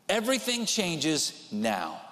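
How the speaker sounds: slow, weighty Everything changes now; slow emphatic repeat. Shown as a demonstration. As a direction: let Everything land slowly. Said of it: "repeated slowly".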